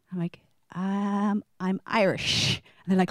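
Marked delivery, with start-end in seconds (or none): 0.8-2.6 flat deadpan correction. Retold or imitated. Answering people in Ireland, slow deadpan. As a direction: state it as the obvious.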